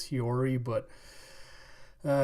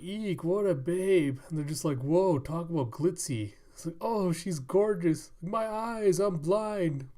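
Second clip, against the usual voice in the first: swooning admirers; 5 semitones higher than usual. Acted. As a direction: gush as if dazzled by her beauty. Crowd swooning at courtesan's beauty.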